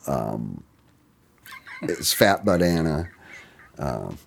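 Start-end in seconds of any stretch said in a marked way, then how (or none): 1.8-3.1 Fat Butt Anna said as a pun on Fecebat Anno; joking mispronunciation. Retold or imitated. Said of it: "we've heard Fecebat Anno".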